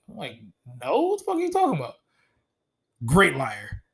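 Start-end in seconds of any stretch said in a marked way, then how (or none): 0.8-1.9 high, rapid retold denial; feigned indignant denial. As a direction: act offended by the accusation, fast. Acted denial to the husband.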